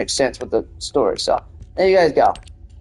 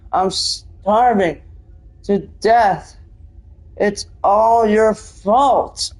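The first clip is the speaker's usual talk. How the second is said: hammed-up anguish, drawn out and higher; acted strange voice; 4 semitones higher, slower than usual. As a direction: play a wounded, accusing character, slowly. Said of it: "the strange voice that it says".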